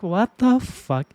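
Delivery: drawn-out, exasperated what the fuck; slow, stretched-out bafflement; exasperated disbelief. Real, not acted. She reacts to VTubers fighting on Twitter, baffled.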